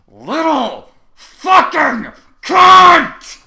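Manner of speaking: screaming at full force, drawn out; furious scream. A narrator's reading. Furious human screams at Diamond Tiara. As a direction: scream it at the filly with everything. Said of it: "Trevor screamed the last word".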